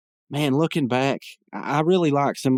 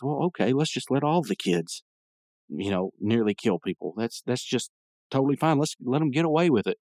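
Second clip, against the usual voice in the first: mock agreement, pitched up at the ends; sarcastic; 3 semitones higher than usual. Real, not acted. Podcaster mocking a character's lenient excuse, sarcastic. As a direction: pretend to concede, with exasperated sarcasm.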